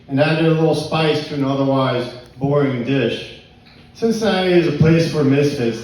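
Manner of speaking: measured spoken-word recital; poetry reading. Acted. Poet reads Cincinnati poem to pub crowd, poetry reading. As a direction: read it out as a performed poem.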